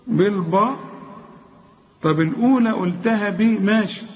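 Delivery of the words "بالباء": بالباء with a dark, thick last vowel; wrongly heavy ba. Shown as a demonstration. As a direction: darken the second ب of بالباء. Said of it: "إنما التانية باء".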